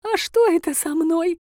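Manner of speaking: a frail granny waking up in tears; old granny. A narrator's reading. Granny cannot get up. (голос плачущей старушки, высокий и медленный)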